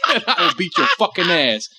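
mock threat broken up by laughter; laughing mock threat. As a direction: crack up while making a silly threat. Joking mock threat, cracking up laughing.

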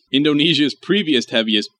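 usual speaking voice

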